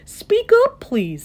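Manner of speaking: loud, high request dropping on please; calling to be heard. A narrator's reading. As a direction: call out to someone barely audible. Elephant straining to hear the speck.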